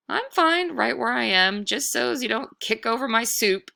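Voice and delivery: put-on a small boy calmly standing his ground; brave boy. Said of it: "Thomas said".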